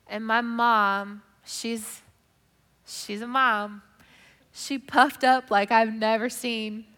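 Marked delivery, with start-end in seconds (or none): none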